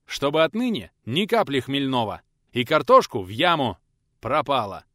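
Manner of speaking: furious householder laying down the law; angry loud orders. Acted. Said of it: "продолжал отдавать распоряжение".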